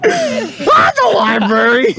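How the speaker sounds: imitating a cracked voice, high squeal; loud, high, drawn-out mimicry of a crack; mock voice crack. Co-host mocking the host's library line, imitating the voice crack. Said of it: "such an intense voice crack".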